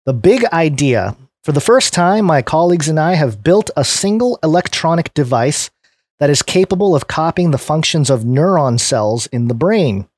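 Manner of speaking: clear, lifted read-aloud voice; presenter reading from a written piece; article read aloud. Real, not acted.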